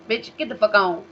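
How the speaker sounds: loud, sharp brush-off; angry dismissal. Real, not acted. Ranting at Candace Owens, a loud angry brush-off. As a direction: shove her away with the words.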